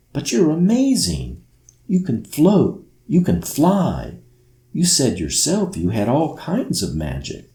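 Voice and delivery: a hint of a young girl begging her magical friend; eager young girl. A narrator's reading. Thompson pleads with Sandman, young girl.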